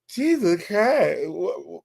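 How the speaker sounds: lightly mocking, stretched-out quote; imitating Fruity Pebbles. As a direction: echo the odd exclamation, slow and questioning. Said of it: "talking like this right now".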